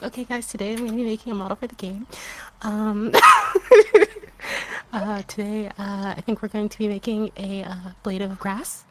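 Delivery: lightly voiced bad British tutorial host; a hint of British as a lazy tutorial host; bad British accent. Teasing a friend with a lightly voiced bad British tutorial host. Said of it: "really bad British accent".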